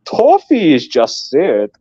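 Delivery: lightly mimicked slow announcing of a message; slightly mock-formal read-out; imitated message read-out. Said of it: "you read it out in your beautiful Scottish accent".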